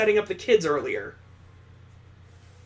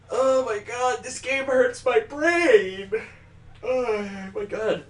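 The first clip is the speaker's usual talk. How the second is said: exasperated outburst; 3 semitones higher, slower than usual. Real, not acted. Player exasperated by the plot.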